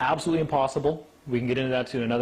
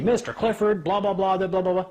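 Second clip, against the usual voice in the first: mock droning judge; 6 semitones higher than usual.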